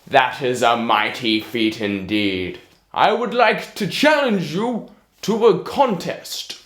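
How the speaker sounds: loud, put-on giant voice; booming giant. Giant challenging the tailor, loud and booming. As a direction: challenge him like a proud giant.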